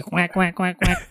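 quacking like a duck; soft duck quacks, lightly voiced. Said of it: "you just tell me the sounds and I'll do it for you".

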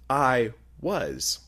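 "was" set apart and stressed as the wrong tense. Shown as a demonstration. Preacher contrasting verb tenses, stress on "was". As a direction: lean on "was" to reject it. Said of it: "Let me emphasize the verb".

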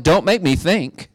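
high-pitched mock protest; mock complaint. Mimicking people who resist thinking.

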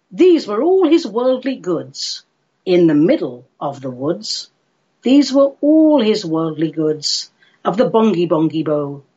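measured, lilting verse reading; poem recitation. A narrator's reading. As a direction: recite nonsense verse with clear rhythm.

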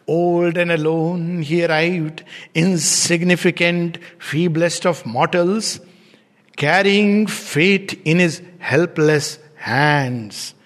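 very slow, drawn-out verse reading; poem recitation. Acted. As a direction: recite the line slowly, stretching each phrase.

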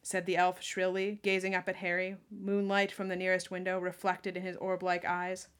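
projected, even storybook reading; story narration. A narrator's reading. Reader describes the elf gazing up at Harry, story narration. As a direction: read it out as the narrator.

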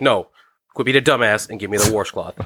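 "washcloth" with an R, as "warshcloth"; mom's Midwestern warsh. Retold or imitated. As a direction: retell mom insisting on "washcloth" as "warshcloth". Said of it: "She's like".

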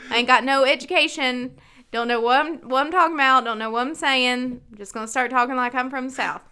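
put-on hillbilly accent, words run together. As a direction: slur it like a mock hillbilly. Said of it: "start breaking out my hillbilly accent".

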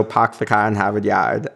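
the classic Boston accent line. Shown as a demonstration. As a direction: drop the r's, Boston style. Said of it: "I have a Boston accent".

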